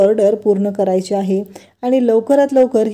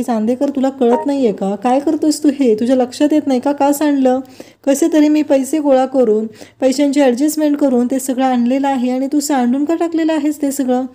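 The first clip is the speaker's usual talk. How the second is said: mild mock scolding, raised pitch; retold scolding; 3 semitones higher than usual. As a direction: scold him lightly, as a storyteller would. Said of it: "त्याला ओरडू लागते". (हलक्या आवाजात नक्कल केलेलं ओरडणं)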